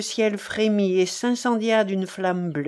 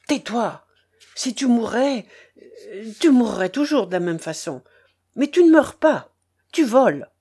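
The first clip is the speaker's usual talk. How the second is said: put-on a boy shouting back, louder at the end; child's angry cry at his grandfather; 4 dB louder than usual. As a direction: scold the old man, voice rising to a shout. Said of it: "cria l'enfant".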